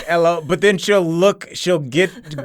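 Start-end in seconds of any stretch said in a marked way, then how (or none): 0.1-0.4 higher, louder mock Cockney greeting; Corinne. Co-host mimicking host's accent attempt, mock Cockney. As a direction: imitate a friend's attempted Cockney. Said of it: "Corinne will say something like".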